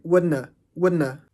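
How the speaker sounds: wouldn't said as "wouldna"; wouldn't, with have cut to a schwa; dropped v. Shown as a demonstration. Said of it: "Quitando la V".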